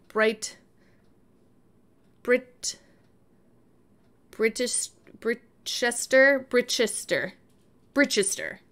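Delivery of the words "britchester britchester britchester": "Britchester" said slowly, short i, ch sound; trying out the word. Shown as a demonstration. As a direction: repeat "Britchester" as Brit-chester, testing it. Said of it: "That's what I'd say".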